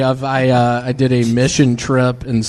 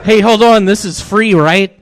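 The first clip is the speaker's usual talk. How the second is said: playful innocence; 6 semitones higher than usual. Retold or imitated. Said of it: "so easy to be like".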